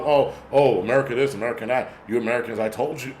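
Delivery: a hint of a preachy know-it-all; mocking foreign pundit. A vlogger mocking pundits who lecture Americans, lightly put-on smug voice. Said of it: "bullshit fucking talking about".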